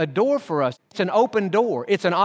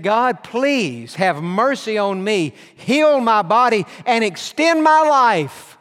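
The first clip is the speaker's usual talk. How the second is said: slow plea rising higher and louder; pleading prayer; 3 semitones higher, 3 dB louder, slower than usual. Retold or imitated. Hezekiah begs God to heal him, slow rising plea. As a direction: beg for mercy, swelling. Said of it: "he said".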